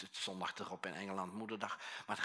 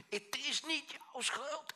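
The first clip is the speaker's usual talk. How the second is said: much higher, slow, forceful cry; shouted; slower than usual. Retold or imitated. Pastor, urged to go harder, cries it out to counselee. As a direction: throw it out so she finally hears it. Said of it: "En ik schreeuwde en ik schreeuwde".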